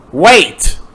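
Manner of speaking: a mild mock yell; mock scream. A narrator's reading. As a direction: call out after him, hammed up. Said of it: "screamed Linkara".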